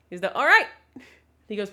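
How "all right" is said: loud goodbye. Shown as a demonstration. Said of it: "That's how I actually say goodbye".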